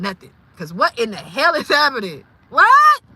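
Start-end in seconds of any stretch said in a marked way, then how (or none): 2.5-3.0 very high, loud rising yelp; shocked. Real, not acted. Reacting to Miss Cynthia's misfortunes, shocked. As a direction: yelp it in sheer disbelief.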